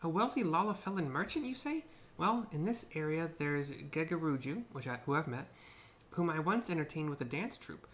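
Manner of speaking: lively character voice. Acted.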